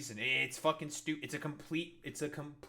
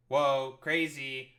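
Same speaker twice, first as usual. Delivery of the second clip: mock surprise; 4 dB louder, much slower than usual. Mocking fake surprise again.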